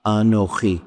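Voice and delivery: Anochi said calm and settled, falling at the end; presence. Shown as a demonstration. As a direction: say Anochi as steady, certain presence. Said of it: "God's Anochi is the voice of eternal presence".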